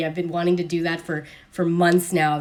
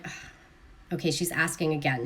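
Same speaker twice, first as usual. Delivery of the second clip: annoyed; 6 semitones lower, 9 dB quieter, faster than usual. Retold or imitated. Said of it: "the girl who gets it is like".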